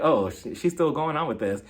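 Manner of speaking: low aside, imitated; silent-judgment aside. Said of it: "just looking at her like".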